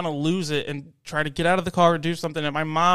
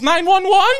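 very high, loud questioning squeal; mocked lady on phone; 9 dB louder than usual. Lady pretending 911 answered already, mocked lady on phone. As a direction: imitate a fake emergency call, pitched way up. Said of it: "holds the phone up to her ear and goes".

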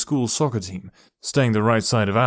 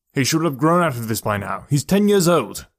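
rising to a louder, higher burst of frustration; exasperated father; 4 semitones higher, 4 dB louder than usual. Acted. Father complains about his son's imaginary friend, exasperated and getting louder. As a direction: let the frustration boil over by the end.

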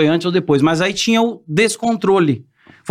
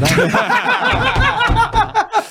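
high laugh. Real, not acted. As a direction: crack up laughing. Laughing at the low salary.

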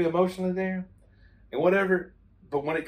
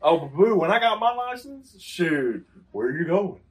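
louder, higher mock exchange; mock back-and-forth; 5 semitones higher, 4 dB louder than usual. Teen mocking his dad's questions about his plans, louder and higher. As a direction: play both sides, teasing.

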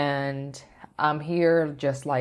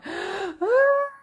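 high gasping sob-scream; imitated wailing cry; 3 dB louder than usual. Demonstrating how they cried that night, imitated wail. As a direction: act out crying out loud, long high wails. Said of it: "And then I cry".

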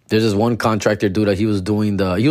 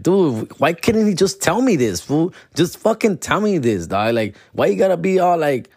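higher-pitched, pleading protest; exasperated complaint; 6 semitones higher than usual. Retold or imitated. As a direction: demand to know why, pitched up. Complaining about contractor going through cousin.

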